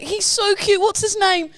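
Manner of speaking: high-pitched puppy-adoring voice; gushing over puppy. Retold or imitated. Runner meeting a stranger's corgi, gushing. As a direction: coo eagerly over someone's dog.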